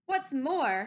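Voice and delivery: lightly snapped retort. Acted. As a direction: snap it out, dander up. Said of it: "snapped the Lorax".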